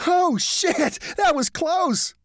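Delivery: very high, loud thrilled exclamation; giddy excitement. A narrator's reading. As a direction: near miss, laughing it off. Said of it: "giddy with excitement".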